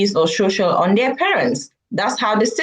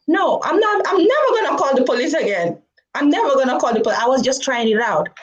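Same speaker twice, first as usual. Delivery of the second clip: higher, hurried retold plea; chastened child promising; 5 semitones higher, faster than usual. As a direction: imitate a kid rushing out a promise. Chastened kid hastily promises officer.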